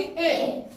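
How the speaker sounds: ए as a brief 'eh', letter E's short sound. Shown as a demonstration. Teacher answering what E's short sound is, short ए. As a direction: give a short, isolated 'eh' for ए. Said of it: "ई की short sound क्या होगी".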